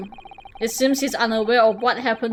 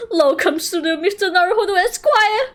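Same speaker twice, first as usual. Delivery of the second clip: much higher, fake-sobbing overjoyed welcome; mock tearful joy; 9 semitones higher than usual. Natsume overjoyed his friend came back, mock crying. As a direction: blubber with hammed-up joy.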